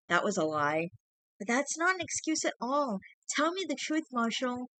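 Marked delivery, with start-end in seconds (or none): 1.4-4.7 much higher, pleading insistence; hurt girlfriend. A narrator's reading. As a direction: demand the truth through hurt. Girlfriend demanding the truth.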